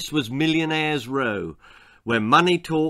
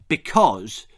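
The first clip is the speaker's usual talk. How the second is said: scornful snort; 3 semitones lower, 4 dB louder than usual. Acted. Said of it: "snorted Ginger".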